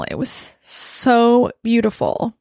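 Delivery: slow, drawn-out heartfelt wonder; real emotion, stretching the words; emotional. Real, not acted. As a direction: savour it, moved. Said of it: "I'm gonna kinda get emotional".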